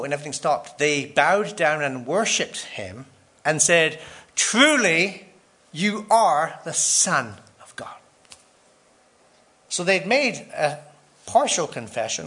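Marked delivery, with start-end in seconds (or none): 4.3-8.0 awed whisper. Acted. Disciples worship Jesus in boat.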